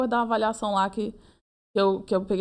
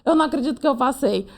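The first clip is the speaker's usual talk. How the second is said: joyful shouting, calming down; 10 semitones higher, 4 dB louder than usual. Retold or imitated. Telling her sister she passed, joyful shout fading. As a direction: shout with relief, then wind down. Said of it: "Aí eu comecei a gritar".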